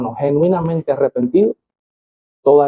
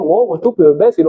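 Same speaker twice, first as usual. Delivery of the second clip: mock insult; 3 dB louder than usual. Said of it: "una persona te dijo".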